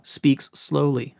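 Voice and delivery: SLOWLY drawn out; unhurried, stretched delivery; slow speech. Shown as a demonstration. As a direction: take your time on each word. Names pace while showing it.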